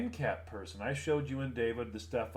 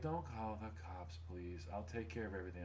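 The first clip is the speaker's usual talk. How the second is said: pleading; 7 semitones lower, 15 dB quieter than usual. Retold or imitated. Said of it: "She's like".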